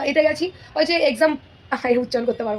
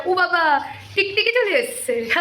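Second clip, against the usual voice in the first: 1 startled alarm; 3 semitones higher, slower than usual. Real, not acted. Startled by lizard in kitchen.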